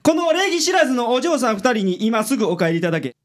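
high, exasperated order; irritated. Acted. Detective ordering his assistant to send the girls away, irritated. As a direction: snap at the boy to show them out.

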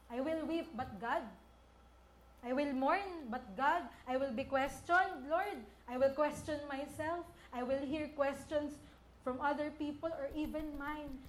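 rising, insistent preacher's prayer; a fervent preacher building his vow to God; preaching at full force. Acted.

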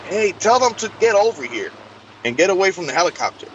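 mock urgent call-out. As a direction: imitate someone calling people over, without real shouting. Teammate calling out an instruction.

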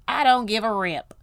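don't-care sass; sassy. Real, not acted. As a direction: toss it off with attitude. Sassy dismissal.

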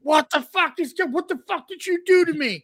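high-pitched panicked yelp; squealing indignation; acted outrage. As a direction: demand answers in high, retold fury. Retold outrage at being burned.

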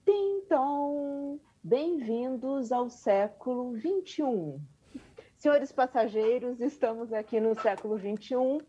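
chirpy PA announcer voice; airport announcement. Pretend. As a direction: announce it like over the airport speakers. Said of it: "aquele aviso de, é, de aeroporto".

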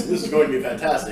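polished, upbeat on-air voice; professional voice. Shown as a demonstration. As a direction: sound like a smooth radio host. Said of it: "where I'm speaking in my professional voice".

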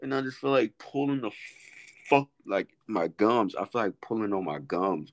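talking with braces bands; words around rubber bands; rubber bands on teeth. Real, not acted. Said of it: "I got these rubber bands on my teeth".

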